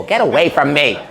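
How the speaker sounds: a touch of annoyance on Get away from me, normal pitch; mild dismissive brush-off. Retold or imitated. Casino bosses brushing off the TikToker, mildly irritated. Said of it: "they all went".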